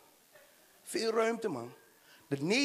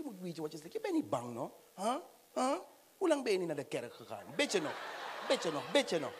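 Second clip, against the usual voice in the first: voiced mother; 2 semitones lower, 5 dB quieter than usual.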